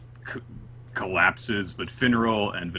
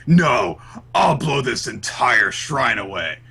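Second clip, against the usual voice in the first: mock villain vow; 3 semitones higher, 4 dB louder, slower than usual. Acting villain's self-destruct vow.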